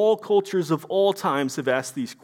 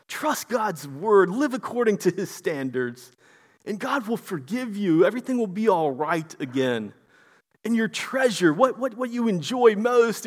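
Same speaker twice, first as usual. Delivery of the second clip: mock sweet counsel. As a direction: sell a comforting false gospel. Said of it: "false theology that Eliphaz is just spewing".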